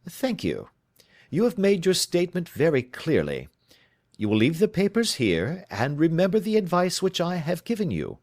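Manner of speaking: firm, kindly and commanding; reassuring detective. Acted. Holmes to his client, firm and reassuring. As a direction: take the weight off her shoulders.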